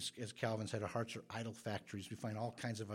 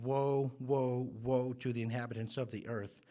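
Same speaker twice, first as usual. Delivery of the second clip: proclaiming woe; 4 dB louder than usual. Retold or imitated. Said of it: "The angel in Revelation saying".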